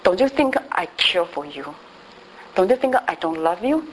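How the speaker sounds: God speaking gently. Retold or imitated. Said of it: "然后神就对我说话了".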